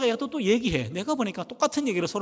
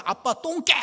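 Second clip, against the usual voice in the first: put-on child's angry yell; 10 semitones higher, 4 dB louder than usual. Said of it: "문을 꽝 닫으면서".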